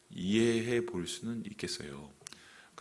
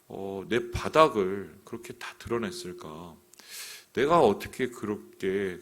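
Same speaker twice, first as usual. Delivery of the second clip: acted remorse, each question starting loud and sinking; imagined self-reproach; 4 dB louder than usual. Preacher voicing David ashamed of fearing men, in acted self-reproach. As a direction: voice David berating himself, hitting the openings hard. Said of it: "굉장히 자괴감에 빠진 거죠".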